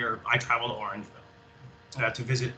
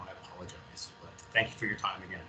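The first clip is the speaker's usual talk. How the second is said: emotional; 4 semitones lower, 11 dB quieter, faster than usual. Real, not acted. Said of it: "I get a little bit, uh, emotional".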